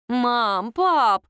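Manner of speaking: a grown daughter scolding her playful parents; reproachful call. A narrator's reading. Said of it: "покачала головой Галина".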